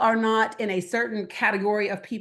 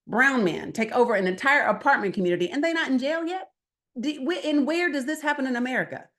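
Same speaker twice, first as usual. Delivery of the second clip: higher, pointed street-talk challenge; talking their way; 5 semitones higher than usual. Retold or imitated. Speaker asks two men about the Aurora story, in their casual street register. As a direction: flex into their slang and push them. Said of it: "you gotta flex into who they are".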